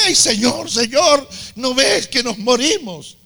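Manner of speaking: high, mock-frightened plea to the master; panicked cry. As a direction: play the scared disciples, voice up high. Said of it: "empiezan a gritar como nenes".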